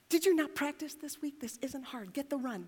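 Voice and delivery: exasperated scolding. Retold or imitated. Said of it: "You look at them like".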